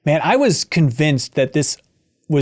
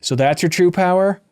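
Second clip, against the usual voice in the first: deadpan. Retold or imitated. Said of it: "in the driest, most deadpan way".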